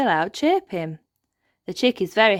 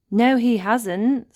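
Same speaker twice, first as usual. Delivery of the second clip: smiling reassurance; 6 semitones higher, 5 dB louder, slower than usual. Acted. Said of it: "smiles Ben Elf".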